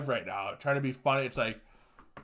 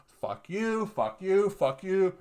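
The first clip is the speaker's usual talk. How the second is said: raised, punchy fuck yous, pitch up; ranting podcaster telling off push-up challengers, heated and raised; angry fuck yous; 6 semitones higher, slower than usual. Real, not acted. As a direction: spit each one out at the taggers. Angry rant at challenge taggers.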